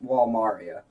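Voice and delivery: Walmaria with an open "ah", wall-MAR-ee-uh; settled pronunciation. Shown as a demonstration. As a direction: say Walmaria with MAR, not MEER. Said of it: "it's pronounced Walmaria".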